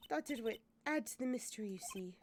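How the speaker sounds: put-on light French accent. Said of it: "I'm gonna drop that accent".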